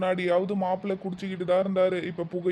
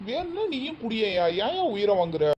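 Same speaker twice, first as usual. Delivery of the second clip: angry retort; 2 semitones higher than usual. Acted. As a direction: push back hard at the nagging relative. Drunk husband snaps at in-law. (கோபமான குடிகார மாப்பிள்ளை)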